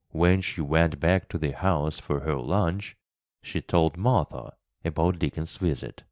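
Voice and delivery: usual speaking voice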